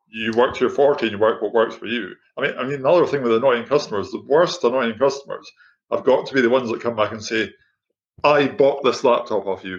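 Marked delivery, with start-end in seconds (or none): 8.3-9.8 mock condescending tone, slow and talking-down. Imitating an annoying customer returning a laptop: imitating a condescending customer. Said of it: "in a really condescending sort of manner".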